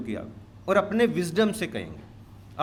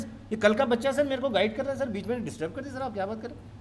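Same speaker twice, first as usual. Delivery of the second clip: mock arrogant tantrum; 6 semitones higher, much faster than usual. Speaker mimics himself complaining to sir about a youngster, mock-indignant. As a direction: play an affronted complainer, hurriedly. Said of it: "I am throwing tantrums, acting smart, showing my arrogance".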